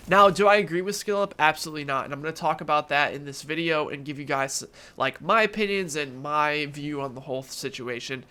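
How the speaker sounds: blocked nose from allergies; nasal, stuffed-up voice. Real, not acted. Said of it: "I sound a little bit nasally".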